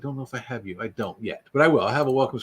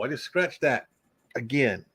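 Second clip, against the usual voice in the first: normal talking voice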